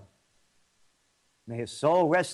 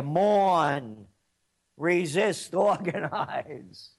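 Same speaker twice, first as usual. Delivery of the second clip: mocking laugh; much slower than usual.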